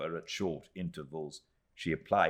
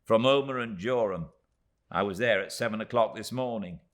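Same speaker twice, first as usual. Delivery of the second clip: tiny Miss Moucher; 3 semitones higher, 4 dB louder than usual. Acted.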